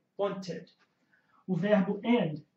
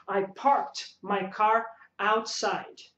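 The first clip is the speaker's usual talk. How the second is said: slow demo sentence; much slower than usual. Shown as a demonstration. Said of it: "Então você fala".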